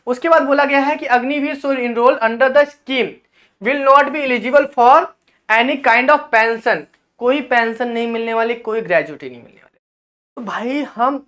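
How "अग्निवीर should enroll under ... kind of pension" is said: slow, deliberate reading aloud; reading out official text. Acted. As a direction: read the clause out slowly in measured chunks. Reads official English text aloud.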